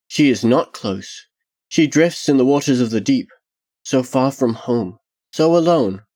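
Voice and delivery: put-on lonely child, understated; lightly voiced child. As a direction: lightly suggest a child speaking of someone lost. Child character speaks in story.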